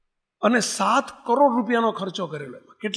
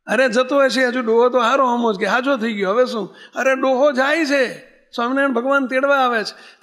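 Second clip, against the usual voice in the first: retold shouting; 4 semitones higher than usual. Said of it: "રાડ્યું પાડો છે".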